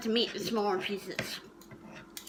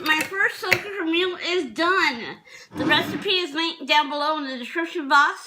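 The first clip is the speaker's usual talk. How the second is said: talking through happy laughter; words bubbling with laughter; laughing while talking; 3 semitones higher than usual. Real, not acted. Proud sign-off of finished meal.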